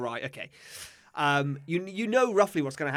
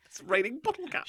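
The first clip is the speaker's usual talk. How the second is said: library whisper; 7 semitones higher, 5 dB quieter than usual. Pretend. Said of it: "We're recording in a library".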